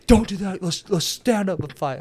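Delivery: high, loud mock protest; retold pissed off. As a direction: imitate a furious sore loser complaining. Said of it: "He just fucking was so pissed".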